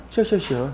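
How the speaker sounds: 시엇 with a slack jaw and a slushy sh. Shown as a demonstration. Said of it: "아래턱을 좀 빼면 되겠지".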